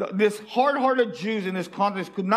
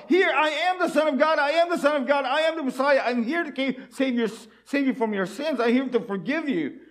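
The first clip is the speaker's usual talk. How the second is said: pleading proclamation; 4 semitones higher than usual. Retold or imitated. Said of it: "Jesus was already pushing himself".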